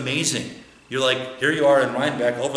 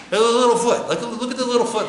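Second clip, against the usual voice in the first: high, loud awe at a little foot; laughing at how tiny it is; delighted wonder; 9 semitones higher, 3 dB louder, faster than usual. Real, not acted. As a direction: marvel with a laugh in it. Marvelling at child's foot.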